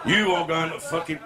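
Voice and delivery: slipping into a sergeant-major voice; sergeant major slip. Acted. Joke-teller gives Arab the wrong voice, sergeant major. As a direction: start the threat like a drill sergeant. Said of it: "He was a sergeant major then".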